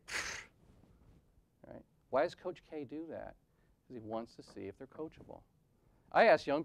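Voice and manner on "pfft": a scoffing puff of air; dismissive pfft. Retold or imitated. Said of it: "the athlete might look at him and say".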